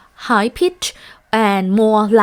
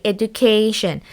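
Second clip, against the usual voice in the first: EDUCATION with the third syllable stressed; stress on KAY syllable. Shown as a demonstration. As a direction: lean on the "ca" in "Education". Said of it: "So the syllable K is stressed".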